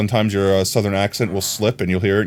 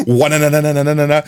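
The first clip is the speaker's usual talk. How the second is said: mock New York rattle, raised and quick; New Yorker gibberish; 4 semitones higher than usual. Shown as a demonstration. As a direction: show off a full New Yorker burst. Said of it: "I can go full New Yorker if you want".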